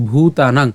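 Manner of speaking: ভূতানাং with weight on a long ভূ; pressed first syllable. Shown as a demonstration. Teacher explains the long vowel, ভূতানাং said with pressure. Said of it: "উচ্চারণটা একটু চাপ দিতে হবে".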